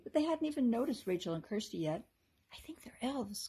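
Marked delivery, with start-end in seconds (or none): 2.5-3.5 soft unvoiced whisper; hushed whisper. A narrator's reading. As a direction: keep it hidden from the elves. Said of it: "Kirsty whispered".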